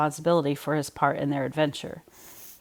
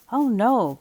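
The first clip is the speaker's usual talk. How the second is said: gasped; 7 semitones higher than usual. Acted. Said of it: "gasped Buddy".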